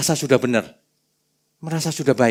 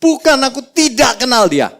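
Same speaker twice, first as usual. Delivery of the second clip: cursing denial; 10 semitones higher, 5 dB louder than usual. Retold or imitated. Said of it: "Dengan mengutuk".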